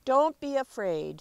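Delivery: put-on a big wolf calming the child; wolf reassuring. The wolf tells the child not to fear, firm and loud. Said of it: "said the wolf".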